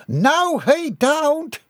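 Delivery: high-pitched, defiant cry; defiant yell. A narrator's reading. Missus Binkley springing up from the blanket, defiant yell. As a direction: call it out in protest. Woman jumps up to stop him.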